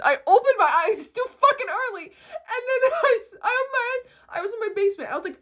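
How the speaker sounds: loud, high-pitched angry outburst; exasperated storytelling at full volume; angry ranting. Real, not acted. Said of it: "Me getting angry".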